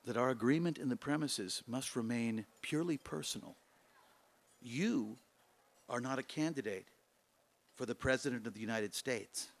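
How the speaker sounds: a candidate's quiet, rueful admission; concluding sadly. Acted. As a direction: let the words sink, resigned and hushed. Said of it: "he concluded sadly".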